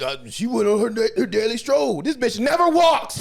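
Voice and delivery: mock-panicked friend covering for her; panicked Kuwabara. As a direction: stammer out the excuse, then yell the punchline.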